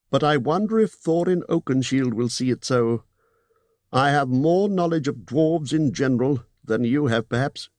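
高めの声でゆっくり威厳ある呼びかけ; 敬意をこめて名を呼ぶエルフの王. Acted. Elvenking voiced in story.

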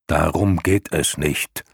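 slow, grumbling lion voice; growling lion. Acted. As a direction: growl it firmly. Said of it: "grollte Graugrammann". (grollende Löwenstimme)

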